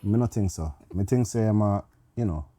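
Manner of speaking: put-on Jamaican accent. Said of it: "It's a Jamaican accent this time".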